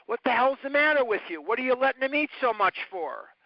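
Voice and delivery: hammed-up scolding of a mother; retold yelling. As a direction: bark it like an angry grown-up scolding a parent. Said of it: "people would yell at my mother".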